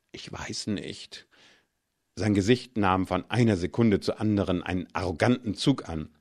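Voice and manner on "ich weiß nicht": soft, slow, voiced „Ich weiß nicht“; softly hesitant, slow. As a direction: trail off, unsure and quiet. Hesitant reply to Iwan's urging.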